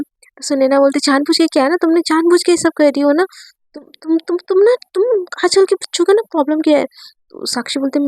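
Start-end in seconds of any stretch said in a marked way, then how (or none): 1.1-6.9 mildly exasperated, rising as it goes; teacher's annoyed telling-off; acted scolding. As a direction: splutter into a higher, quicker reproach. Teacher scolds student in acted quarrel.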